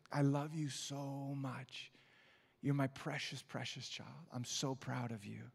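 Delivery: put-on very slow, lightly Egyptian-accented grandfather. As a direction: draw it out like a loving Egyptian grandpa. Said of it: "In his Egyptian accent".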